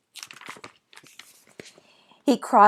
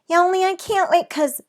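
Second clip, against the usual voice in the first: pleading; 11 semitones higher, 5 dB louder than usual. A narrator's reading. Girl interrupting pleading.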